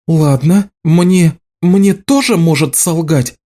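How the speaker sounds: usual speaking voice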